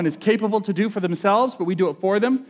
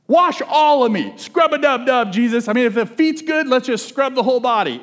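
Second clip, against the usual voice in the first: high, loud, gushing eagerness; hammed-up Peter begging to be scrubbed; overeager Peter; 4 semitones higher, 3 dB louder than usual. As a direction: overdo it like a zealous disciple.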